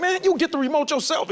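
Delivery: high-pitched, exasperated younger self; mock fed-up teenage self. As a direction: play your teenage self, sick of being bossed around. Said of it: "I was just like".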